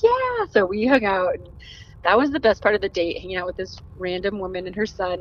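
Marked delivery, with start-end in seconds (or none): 0.0-0.5 high-pitched drawn-out "yeah"; obliging yes. Retold or imitated. Mom agreeing to a stranger joining her, high and obliging. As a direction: imitate a friendly, high-voiced yes.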